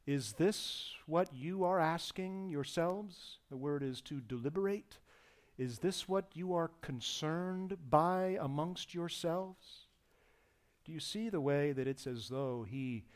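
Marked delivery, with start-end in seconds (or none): 0.1-3.4 tender. Retold or imitated. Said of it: "tender mercy there in the tone of his voice". 5.6-9.9 tender. Retold or imitated. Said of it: "tender mercy there in the tone of his voice".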